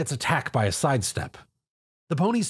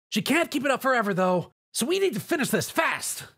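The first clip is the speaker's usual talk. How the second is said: high, brash tomboy voice, reassuring; Rainbow Dash, confident; 11 semitones higher than usual. Acted. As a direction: bold flier calling out over battle.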